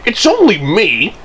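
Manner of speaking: high, lightly amused lilt; amused reassurance. A narrator's reading. Percy owns up to Thomas, lightly amused and high. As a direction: reassure teasingly, pitch lifted. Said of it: "he laughed".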